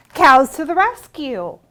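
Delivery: loud ringing call of the title; refrain called out. Acted. Librarian calling the refrain to the children, loud. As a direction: shout it out for the kids.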